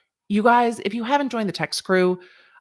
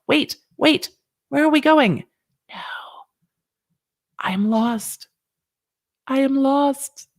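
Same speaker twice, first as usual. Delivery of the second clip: higher, playful mock lost; mock confusion; 6 semitones higher, slower than usual. Host hamming up being lost, higher playful voice. Acting lost after goodbye.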